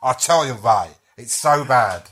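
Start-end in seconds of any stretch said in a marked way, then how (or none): 0.0-0.9 louder, clumsy American Cockney; Al Pacino. Retold or imitated. Friend imitating Pacino's horse-race monologue, bad Cockney accent. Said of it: "he's doing this a-, accent".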